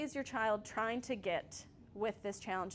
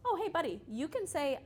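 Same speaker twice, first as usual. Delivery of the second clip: put-on higher, friendly prompt to a kid; gentle parent coaching; 7 semitones higher than usual. Shown as a demonstration. Parent prompts child stuck on reading, gentle coaching. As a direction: step in kindly, pitched up.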